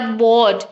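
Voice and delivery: बोर्ड with a stretched o; longer vowel sound. Shown as a demonstration. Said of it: "sound जो है वो longer". (बोर्ड में ओ लंबा खींचकर)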